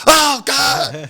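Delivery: high, very loud mock scream; horrified yell. Storyteller mimicking player hit by venom, screaming. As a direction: wail it as if just spat on. Imitating player spat on by snake.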